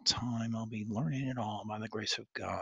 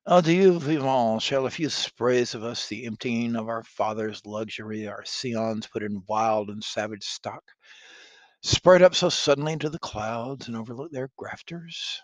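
scornful prince; 7 dB louder than usual. Acted. Dauphin scoffs.

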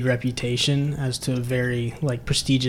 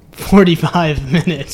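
louder insistence breaking into laughter; insisting seriously; 7 dB louder than usual. Retold or imitated. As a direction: repeat it emphatically, laughing mid-phrase. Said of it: "No, seriously".

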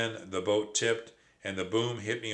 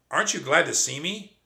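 squeaky nephew; 6 semitones higher, 5 dB louder than usual. Acted. Nephew speaking.

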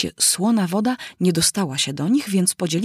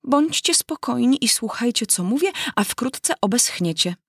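raised mouse voice calling everyone to order; 5 semitones higher than usual. Acted. The mouse calls the animals to listen, a raised call. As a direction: call the soaked crowd to calm down. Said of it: "zawołała".

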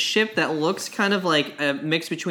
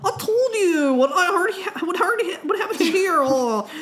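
stammering; 11 semitones higher than usual. Acted. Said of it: "weird stuttering and stammering".

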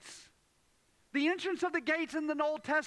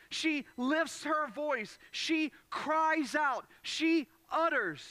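each phrase drawn out slowly and weighted; emphasized words; 2 semitones higher, slower than usual. Shown as a demonstration. Preacher stressing each verb of the verse to the congregation. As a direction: lean hard on lifts, cries and utters. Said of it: "that are emphasized".

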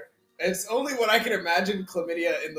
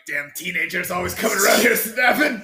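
put-on grumpy old man; 7 dB louder than usual. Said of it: "Half Sack as an old grumpy".

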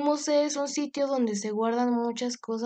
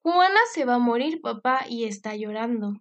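alarmed cry; 3 dB louder than usual. Acted. Girl runs to father alarmed.

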